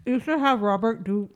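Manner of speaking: talking around ice cream; mouth full of ice cream. Real, not acted. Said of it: "when you have ice cream in your mouth".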